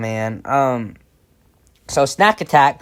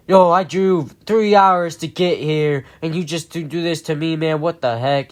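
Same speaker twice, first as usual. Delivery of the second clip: upset complaint; 3 semitones higher than usual. Retold or imitated. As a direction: let him hear how wronged you feel. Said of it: "And so he was like".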